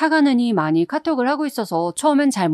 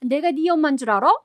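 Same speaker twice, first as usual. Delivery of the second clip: higher, shrill screech of an offended mother-in-law; shrill angry outburst; 5 semitones higher than usual. Retold or imitated. Mother-in-law screeching back at her daughter-in-law, shrill furious yell. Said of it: "째지는 소리를 버럭 질렀고요".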